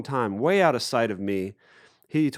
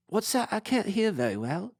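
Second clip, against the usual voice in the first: high put-on calling voice; imitated distant reply; 10 semitones higher, 4 dB quieter than usual. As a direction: answer from a boat, straining to hear. Boatman answering across the water.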